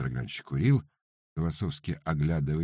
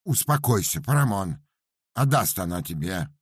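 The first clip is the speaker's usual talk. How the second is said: indifferent calm; 5 semitones higher, 4 dB louder than usual. Acted. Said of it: "без прежнего напряжения и даже с неким безразличием".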